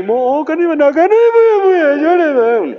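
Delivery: high, loud, sobbing cry; weeping plea. Acted. Sinners crying on the plain of Arafah, loud high weeping. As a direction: wail it out like someone begging through tears. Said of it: "Itu menangi-nangi".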